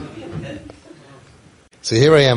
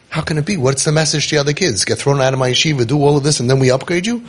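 higher-pitched, retold indignant questioning; incredulous objection; 5 semitones higher than usual. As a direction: imitate someone objecting in disbelief, pitched up. Retold objection of the rosh yeshiva.

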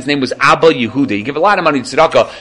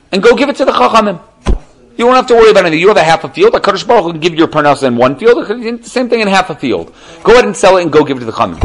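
urging wife voice; 6 semitones higher than usual. Retold or imitated. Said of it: "She said".

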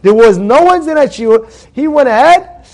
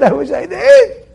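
much higher, slower, half-laughing lament; laughing wail; 8 semitones higher, 3 dB louder, slower than usual. Retold or imitated. A ninety-five-year-old wishing he'd acted, laughing wail.

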